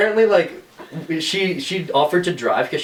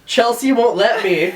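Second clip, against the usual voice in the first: high, slow mock wail; retold freak-out; 8 semitones higher, slower than usual. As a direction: drag out a drunken panicked protest, half laughing. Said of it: "I was, like, freaking out".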